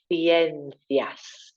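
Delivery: ciencias with both c's as th, THIEN-thias; tongue out on each c in ciencias; lisped c. Shown as a demonstration. Teacher modelling ciencias, tongue out each time. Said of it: "Tongue out each time".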